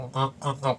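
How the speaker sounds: short nasal "ngak" noises mimicking a bass; imitated nasal bass tone. Shown as a demonstration. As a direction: honk out a nasal bass sound. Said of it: "yang sengau, yang nasal, yang kayak".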